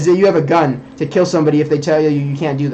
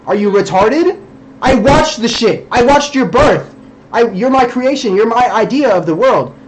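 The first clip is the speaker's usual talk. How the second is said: heated rant; 5 semitones higher than usual. Real, not acted. Ranting at the girl who called him crazy, real anger. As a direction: yell it down at her like an angry god. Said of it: "like, I'm just being a dick".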